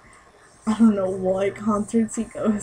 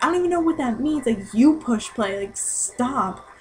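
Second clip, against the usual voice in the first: retold sass; 3 semitones higher, 3 dB louder than usual. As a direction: imitate a sassy comeback, starting high then slowing down. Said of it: "he got so sassy with this girl".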